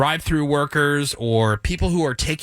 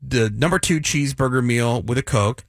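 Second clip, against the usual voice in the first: slow, deliberate ordering; slow and clear. Shown as a demonstration. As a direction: spell the order out slowly. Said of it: "trying to speak clearly and slowly".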